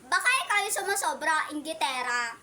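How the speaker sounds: angry. Pretend. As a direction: snap back at her. Kids' pretend quarrel. (galit na pasigaw)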